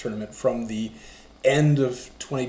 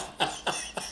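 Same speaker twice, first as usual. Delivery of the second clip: witch cackle; 10 dB quieter than usual. Shown as a demonstration. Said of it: "Back to the witch again".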